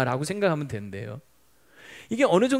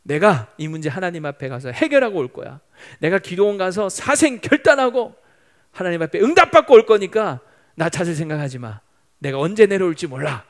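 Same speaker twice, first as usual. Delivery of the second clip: firm declaration, building louder; 단호한 선포; 6 dB louder than usual. Retold or imitated. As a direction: announce your resolve to your wife, pushing the key words hard. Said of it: "이렇게 선포했대요". (단호하게 선언하듯)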